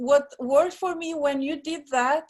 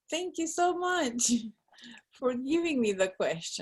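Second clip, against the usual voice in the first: whispered thanks; 4 dB quieter than usual. Real, not acted. Playful thanks after laughing.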